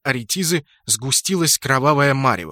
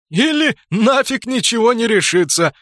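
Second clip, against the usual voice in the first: much higher, louder laughing line; guffawing; 9 semitones higher, 6 dB louder than usual. Acted. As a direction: laugh the words out loud. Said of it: "заржал Спрут". (заржать во весь голос)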